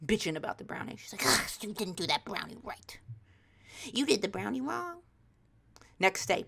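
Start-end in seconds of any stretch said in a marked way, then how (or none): 1.2-5.0 lightly imitated nagging mom; complaining mom. Mom griping about the brownie, mock complaint.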